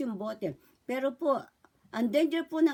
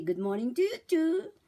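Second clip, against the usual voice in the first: put-on talking to a baby; 4 semitones higher than usual. Shown as a demonstration. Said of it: "I say".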